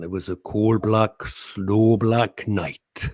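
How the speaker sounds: lightly imitated Welsh actor's recitation; drawn-out, slightly theatrical verse reading; Richard Burton. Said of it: "Richard Burton".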